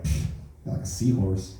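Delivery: a half-whispered scoffing put-down; dry comeback. Retold or imitated. Comic retelling his retort, mild scoffing put-down. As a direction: scoff it under your breath.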